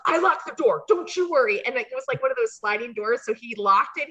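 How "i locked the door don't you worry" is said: higher, louder mock reassurance; calm the pretend wife down; reassuring clerk. Clerk to the pretend wife, mock reassuring. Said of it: "the guy's like".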